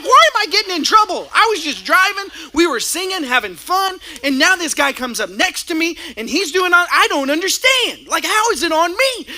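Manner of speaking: high, fast, indignant complaint; whiny protest. Retold or imitated. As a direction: plead your innocence in a rising whine. Husband protests to wife in car.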